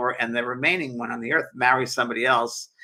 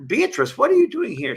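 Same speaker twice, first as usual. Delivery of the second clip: surprised friend; 12 semitones higher, 4 dB louder than usual. Retold or imitated. Beatrice's friend voiced in story.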